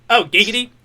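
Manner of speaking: leering catchphrase, first word popped up; Quagmire. Acted. Friend showing off his cartoon catchphrase, Quagmire impression. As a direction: toss out a cartoon lecher's catchphrase. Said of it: "the Quagmire's just".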